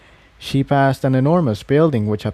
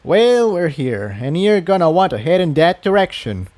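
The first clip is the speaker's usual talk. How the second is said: lightly voiced elderly country pony, a bit higher; folksy old pony giving friendly advice; old earth pony; 5 semitones higher than usual. Old pony pointing a refugee to food, lightly voiced.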